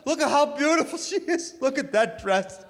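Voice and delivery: high, loud, slow teary mock wail; bawling mother yelling. Mother in the pews at the wedding, hammed-up teary yell. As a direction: wail it like a weeping mom. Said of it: "hearing her yelling".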